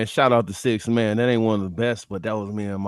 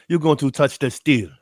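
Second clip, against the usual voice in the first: light mock Nigerian accent; terrible African accent. Wrestling fan imitating a wrestler, badly faked Nigerian accent. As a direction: put on a bad Nigerian accent. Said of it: "terrible African accent".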